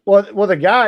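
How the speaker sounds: ordinary talk, nothing marked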